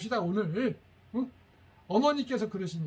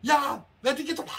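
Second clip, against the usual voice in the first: loud, high parent yelling "야!"; angry yell; 6 semitones higher, 7 dB louder than usual. Shown as a demonstration. Parent scolding a child who came home late, in an angry yell. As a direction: blast it like a furious parent. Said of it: "그러면 안 돼요".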